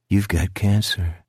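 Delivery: lightly voiced low creature; a hint of a monster delivering bad news; low, matter-of-fact menace; sinister figure. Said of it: "the figure behind the curtain informed him".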